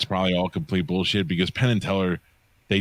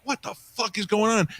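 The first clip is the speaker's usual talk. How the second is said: stunned disbelief. Retold or imitated. Stunned reaction to psychic's guess.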